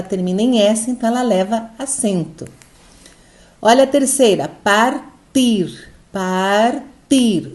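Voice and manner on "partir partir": "partir" split into par and tir, weight on tir; syllable-by-syllable stress demo. Shown as a demonstration. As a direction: break "partir" in two, leaning on the final tir. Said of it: "O tir é a sílaba forte".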